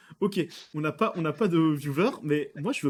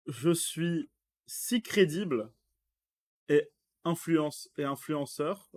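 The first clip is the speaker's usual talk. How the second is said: slow, halting word-for-word French "je suis si crédible"; broken French; slower than usual. Shown as a demonstration. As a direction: read "je suis si crédible et influenceur" slowly, searching each word. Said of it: "la traduction, elle passe pas".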